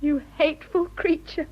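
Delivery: crying through the words; tearful surrender. Acted. Woman yielding to her lover, crying. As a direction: give in with a sob in the voice. Lovers' declaration, she breaks down.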